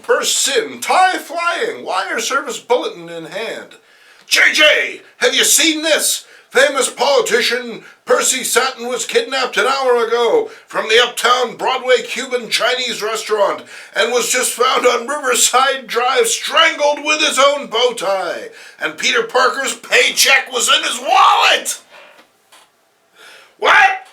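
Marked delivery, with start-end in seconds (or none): 4.3-21.8 loud, high, breathless newsroom shout; excited news. Acted. Robertson bursts in with news. 23.6-24.1 sharp shocked what; startled bark of disbelief; surprised. Acted. Jameson reacts to shocking news.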